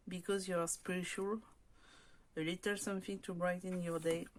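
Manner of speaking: English read with a French accent; careful French-accented English. Shown as a demonstration. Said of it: "ça s'améliore mon accent".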